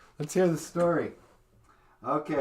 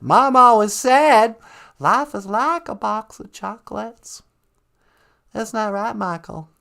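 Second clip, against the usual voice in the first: put-on southern accent; 2 semitones higher than usual. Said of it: "really thick southern accent".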